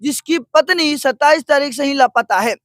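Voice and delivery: dramatic TV reporter read, rising to pity; news report narration. Acted. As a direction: tell it like a heartfelt field report.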